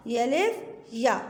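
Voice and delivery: "ये अलिफ या" repeated slowly with a closing fall. Shown as a demonstration. Teacher repeats the last letter pair slowly to finish. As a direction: draw out "ये अलिफ या" to end the list. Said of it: "पढ़ के भी बता देती हूँ".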